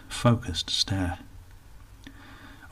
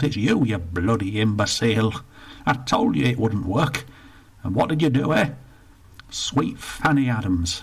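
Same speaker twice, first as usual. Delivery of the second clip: put-on indignant old northerner, rushed in the middle; grumpy old Bertie; 3 semitones higher than usual. Bertie complains to the attendant, indignant grumble. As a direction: grumble about the lost pound.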